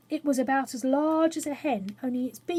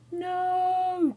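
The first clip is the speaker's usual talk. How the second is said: high alarmed cry; 8 semitones higher, 3 dB louder than usual. A narrator's reading. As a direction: shout it in sudden fright. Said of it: "cried more than one voice".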